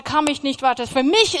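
usual speaking voice

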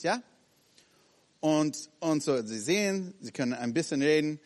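ordinary delivery

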